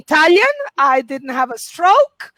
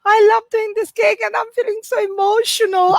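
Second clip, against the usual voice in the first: high, put-on emotional voice; 6 semitones higher than usual. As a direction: act a little overcome with feeling. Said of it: "I'm feeling a little bit emotional".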